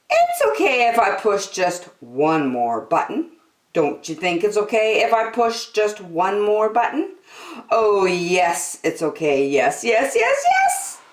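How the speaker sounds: put-on a small girl daring herself to push one button; Angela talking herself into it. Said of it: "Angela said".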